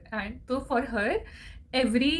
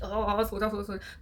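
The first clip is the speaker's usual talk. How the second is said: put-on lulling a baby. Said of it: "जैसे बच्चे को नहीं सुलाते".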